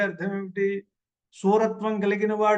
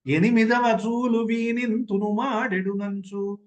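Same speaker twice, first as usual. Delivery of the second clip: poem recitation; 2 semitones higher than usual. Acted. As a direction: recite the verse line in measured recital.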